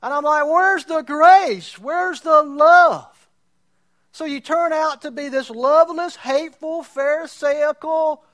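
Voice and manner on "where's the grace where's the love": pleading cry. Retold or imitated. Pastor's own plea.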